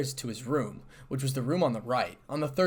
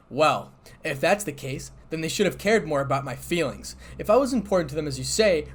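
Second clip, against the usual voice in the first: louder, mildly aggrieved reply; unhappy; 4 semitones higher, 6 dB louder than usual. A narrator's reading. Issei feeling uncared for, unhappy. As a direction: complain with understated unhappiness. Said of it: "reported Issei unhappily".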